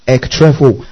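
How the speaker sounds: "Ektrepho" with the stress on the final O; Greek pronunciation. Shown as a demonstration. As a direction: say "Ektrepho" carefully, accenting the last O. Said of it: "The last O accentuated".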